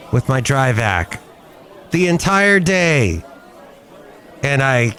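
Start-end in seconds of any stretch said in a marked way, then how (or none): 1.9-3.2 ENTIRE drawn out, higher and slow; stress on ENTIRE. Real, not acted. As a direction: lean hard on "entire", slow and emphatic. Insists on how long it was.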